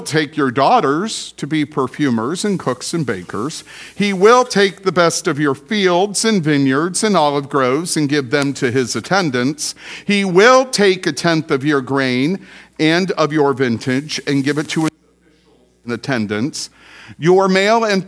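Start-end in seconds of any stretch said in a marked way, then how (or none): 3.9-7.5 "will" leaned on, held and loud; stress on WILL. Shown as a demonstration. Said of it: "Did you hear my emphasis?". 10.1-14.2 "will" leaned on, held and loud; stress on WILL. Shown as a demonstration. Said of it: "Did you hear my emphasis?".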